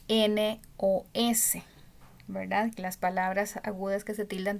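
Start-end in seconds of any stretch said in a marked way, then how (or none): 0.1-1.6 slow listing. Shown as a demonstration. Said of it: "listing the rule's letters".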